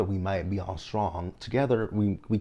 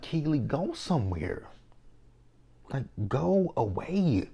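dismissive shooing; 7 semitones higher, slower than usual. Retold or imitated. Telling Keely to leave.

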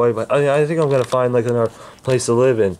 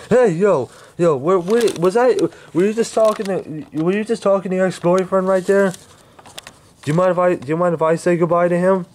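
higher put-on voice; a different character, voiced higher; another character; 4 semitones higher than usual. New character voice enters, pitched up.

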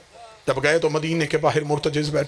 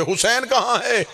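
raised pitch, calling question; searching call; 6 semitones higher than usual. Acted. Companions searching for Hussain, calling out. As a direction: ask it high, as if searching.

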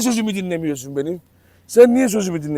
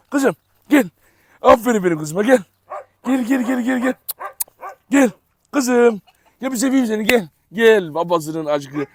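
higher, coaxing sing-song call to the dog; affectionate dog calling; 4 semitones higher than usual. Real, not acted. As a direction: coax the dog over sweetly. Owner calling his dog affectionately. (köpeğini sevecen, ince sesle çağırıyor)

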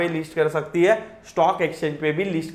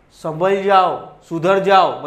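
louder, slow and stern; stern warning; 4 dB louder, much slower than usual. Real, not acted. Teacher warning students to get serious, stern and loud. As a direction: warn them to straighten up.

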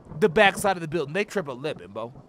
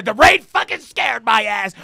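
startled shout; 4 semitones higher, 7 dB louder than usual. Real, not acted. Jump-scared by rain.

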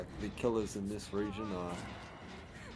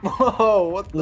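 shocked; 10 semitones higher, 14 dB louder, slower than usual. Real, not acted. Laughing shock at disaster.

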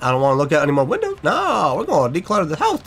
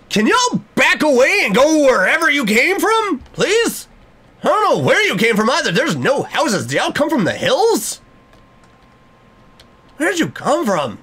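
high, raised-voice pleading; agitated demand; 8 semitones higher than usual. Pretend. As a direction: call out at strangers to back away. Yelling at creepy neighbors to leave.

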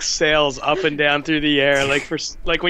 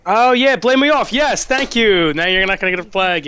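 panicking gamer; 6 semitones higher, 5 dB louder than usual. Real, not acted. Frantic flag moment.

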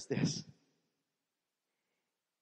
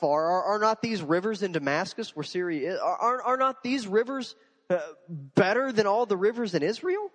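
sarcastic scorn; 5 semitones higher, 4 dB louder than usual. Acted. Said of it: "Here are the sarcasm in this".

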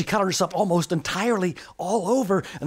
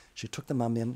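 ordinary delivery

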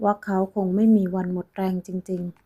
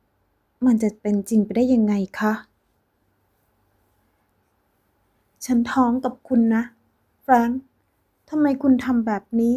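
screaming; 3 semitones higher than usual. Acted. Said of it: "ลินดายิ่งกรีดร้องลั่น".

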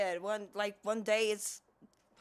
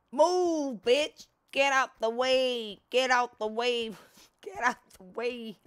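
mock yelling; 5 dB louder than usual. Yelling at a game creature.

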